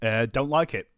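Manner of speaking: London voice drifting north; London accent. Acted. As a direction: act a complaining Londoner. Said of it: "it's for London".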